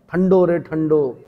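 ठंडो stretched slow and stressed; slow, heavy ठंडो रे ठंडो; emphatic stress. Shown as a demonstration. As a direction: drag out ठंडो to mean very cold. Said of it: "अत्यधिक ठंडा".

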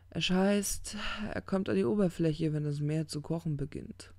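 lightly voiced, halting storyteller; ponderous angel. Aziraphale voiced, describing the kraken.

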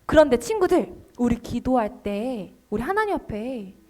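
usual speaking voice

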